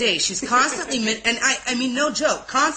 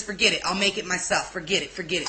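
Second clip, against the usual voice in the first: retold dismissive giving up; 3 semitones lower, 4 dB quieter, faster than usual. Retold exasperated teen giving up.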